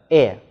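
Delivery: "e" said as an open, stressed é; half-open e. Shown as a demonstration. Teacher to students, modelling the open é of "é". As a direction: open the vowel of "e" wide. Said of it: "e发音是半开音的".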